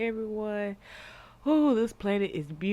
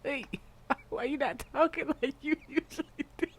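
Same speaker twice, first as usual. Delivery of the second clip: puppet voice; 7 semitones higher than usual. Retold or imitated. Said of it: "He's like".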